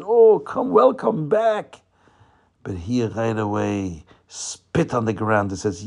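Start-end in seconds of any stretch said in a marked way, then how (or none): 0.0-1.8 high, loud, drawn-out greeting; hammed-up effusive welcome; best-friend welcome. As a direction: gush as if to a dear friend. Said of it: "felt like they're his best friends".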